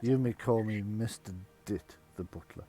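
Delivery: low, quiet butler; deep muttering butler. Acted. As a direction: introduce yourself as a gloomy servant. GM voices butler.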